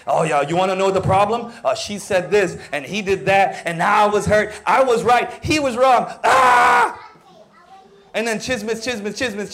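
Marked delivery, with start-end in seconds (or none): 0.1-6.1 lightly voiced eager gossip, quick; mock gossiper. Preacher mocks a gossip spilling the problem, hammed-up. Mocking a gossiping church member. 6.2-7.0 sudden high, loud mock yell; mock shriek. Gossip finishing a rant with a mock yell.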